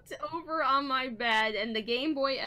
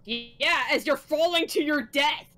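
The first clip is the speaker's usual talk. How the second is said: 1 taunting shout; 2 semitones higher, 5 dB louder than usual. Acted. Reading villain's taunt aloud.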